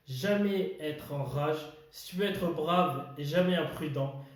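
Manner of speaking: measured verse with pauses between lines; poem recitation. Acted. Host reading Kipling's If to viewers, poem recitation. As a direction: recite it line by line, weighing key words.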